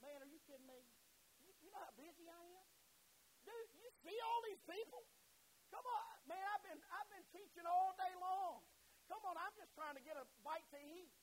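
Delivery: hammed-up tired complaint, building to a high, loud protest; a busy teacher pestered at dinnertime; exasperated busy man. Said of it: "thought like we think".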